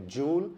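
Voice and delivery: jewel said as one syllable, jool; correct pronunciation. Shown as a demonstration. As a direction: say jewel like jool, not joo-el. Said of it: "सही उच्चारण है".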